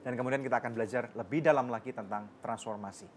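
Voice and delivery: a hint of a broadcast presenter; TV host break. Host telling viewers to stay tuned, light presenter voice. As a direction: wrap up the segment for the viewers.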